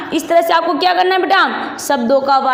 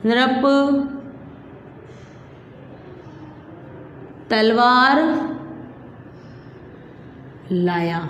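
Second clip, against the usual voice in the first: word by word dictation; 3 semitones lower, 7 dB quieter, much slower than usual. Shown as a demonstration. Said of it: "और शब्द लिखवाती हूँ मैं आपको".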